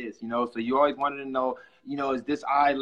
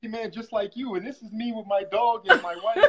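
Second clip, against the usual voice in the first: folksy pitch voice; 6 semitones higher, 4 dB louder than usual. Retold or imitated. Mocking rags-to-riches pitch.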